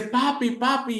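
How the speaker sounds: put-on a frightened little boy calling out; trapped child calling down to his father, scared.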